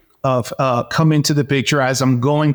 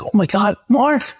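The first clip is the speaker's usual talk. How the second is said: overjoyed surprise; 8 semitones higher than usual. Retold or imitated. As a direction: voice leaping way up on "Mark". Reunion with dead friend Mark.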